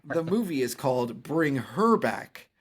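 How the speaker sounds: hammed-up frat boy voice; frat bro. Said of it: "You sounded like a terrible frat boy".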